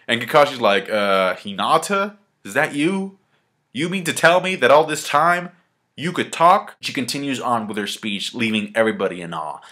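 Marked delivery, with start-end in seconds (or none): 0.9-6.8 incredulous, climbing high into the question; mock disbelief. Kakashi to Hinata after her long speech, astonished.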